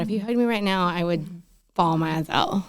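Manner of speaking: breathy crying whisper; barely getting the words out while crying; whispered through tears. Real, not acted. Friend moved to tears.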